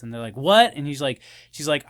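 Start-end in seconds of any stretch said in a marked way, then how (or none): 0.4-0.7 higher, louder retold disbelief; mock shocked. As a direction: blurt it like a startled friend, lightly acted. Retold friends shocked by her pick.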